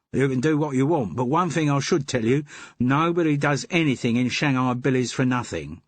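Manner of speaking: the den keeper dropping the act for his own Cockney; Cockney twang. Acted. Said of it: "in a voice with a Cockney twang".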